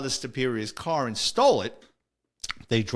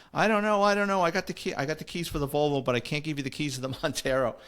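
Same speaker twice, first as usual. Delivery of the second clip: higher, pleading attendant voice that drifts back down; mock nervous attendant, pitched up at first; imitating the attendant; 3 semitones higher, faster than usual. Parking attendant quoted again.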